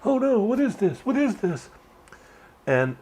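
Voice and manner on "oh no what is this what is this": put-on high, alarmed old-man voice; mock alarm. Old man watching a biker approach, mock alarmed. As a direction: act out a startled old man. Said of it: "and he's like".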